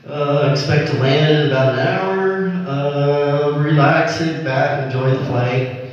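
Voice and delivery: lightly voiced pilot on the cabin speaker; airplane pilot announcement. Pilot welcomes passengers on the flight to Cleveland, lightly acted announcement. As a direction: do a mild captain's announcement, drawling out the "uh"s. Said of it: "Airplane pilot is on the speaker".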